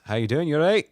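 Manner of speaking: a bad Aussie accent that comes out Scottish. Host imitating Australian listener Alistair walking in, in a bad Aussie accent. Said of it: "It was a really bad Scottish accent".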